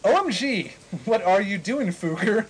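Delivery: overacted angry teacher; mock angry. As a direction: snap at the student in mock anger. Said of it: "he shooted angrily".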